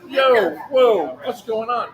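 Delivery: high, loud startled protest; acted alarm. Man retelling an officer pulling him over, acted alarm. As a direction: call out as if caught off guard.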